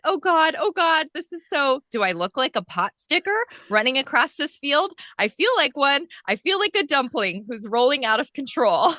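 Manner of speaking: a hint of an actress's flustered movie rant; Drew Barrymore. Runner reciting her out-of-control movie monologue, lightly impersonated. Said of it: "You sounded like Drew".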